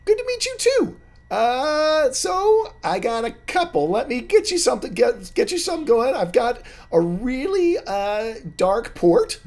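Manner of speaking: very high, loud squeaky halfling; chirpy barkeep greeting old friends; a high squeaky halfling barman; halfling bartender. Acted. Bartender voice continues.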